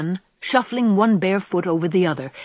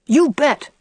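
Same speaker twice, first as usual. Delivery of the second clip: put-on eager little boy; 8 semitones higher, 3 dB louder than usual. A narrator's reading. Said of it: "said Davy".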